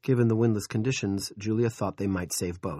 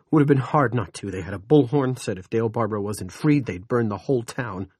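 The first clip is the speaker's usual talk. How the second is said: upset; 2 semitones higher, 5 dB louder than usual. Acted. Pete still shouting upset.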